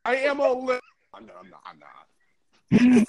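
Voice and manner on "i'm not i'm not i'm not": slow groaning wail; dying train sound. Pretend. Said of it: "it sounds like a dying train".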